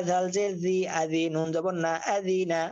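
gentle, unforced জ in "জাল জের জি"; soft zal. Shown as a demonstration. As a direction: say the জ of "জি" and "আজি না" softly. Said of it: "জালের উচ্চারণ নরম করেছি".

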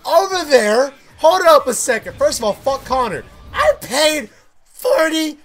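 annoyed outburst. Real, not acted. Angry at game manager.

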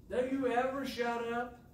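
high-pitched mock rebuke; mock exasperation. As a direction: act fed up, pitched right up.

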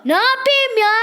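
squeaky what-do-you-want; high exasperated cry. Acted. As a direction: throw up your hands, high. Kids playacting mother and child.

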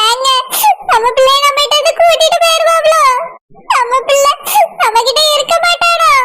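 worried, sobbing between phrases; tearful fear. Acted. Mother asking if their son will be taken, tearfully afraid. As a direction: fret through tears with broken pauses. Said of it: "mummy ஏன் இப்படி பயப்படுறாங்க".

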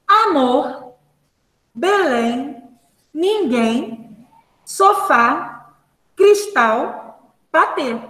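measured reading, each word set apart; word-list pronunciation. Shown as a demonstration. Teacher reading examples to the class, careful pronunciation. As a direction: pronounce every word separately, leaning on its last syllable. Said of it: "Pronunciem as palavras a seguir".

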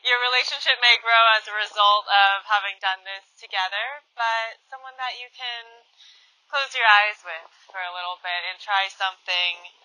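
soft-voiced meditation lead-in; meditation host. Real, not acted. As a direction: ease them in, ending very quietly. Guides listeners into the meditation.

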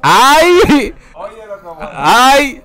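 high exaggerated ay, ay, ay; a teasing, high-pitched ay of disbelief; mock disbelief. Real, not acted. Reacting to barber's claim.

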